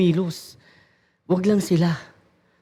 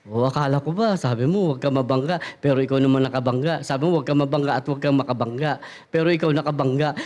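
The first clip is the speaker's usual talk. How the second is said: whispering devil; 6 semitones lower, faster than usual. Retold or imitated. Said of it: "Bubulong na".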